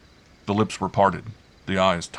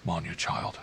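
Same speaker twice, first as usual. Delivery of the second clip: gentle; 7 dB quieter than usual. A narrator's reading. Uncle waking a sleeping child, gentle. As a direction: ease in gently and quietly. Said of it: "he began gently".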